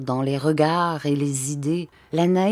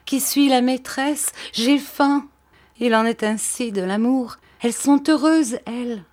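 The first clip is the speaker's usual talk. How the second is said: put-on child's voice; 7 semitones higher than usual. A narrator's reading. Countess jealous of the grape pickers, childlike and high. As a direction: sound like a hungry little girl. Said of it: "d'une voix d'enfant".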